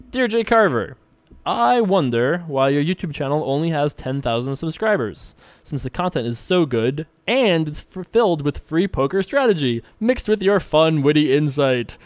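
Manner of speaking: lilting, over-enthusiastic fan-letter voice; hammed-up email reading. Reading a viewer's fan email aloud, hammed-up. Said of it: "I'm laughing at how I read this".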